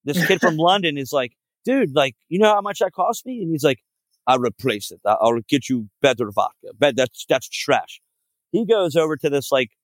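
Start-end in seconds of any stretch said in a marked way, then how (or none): 1.6-3.4 higher-pitched, mock indignant complaint; indignant protest. London kid protests smashed vodka. 4.3-8.0 lightly voiced Russian accent; Russian guy. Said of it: "this Russian guy".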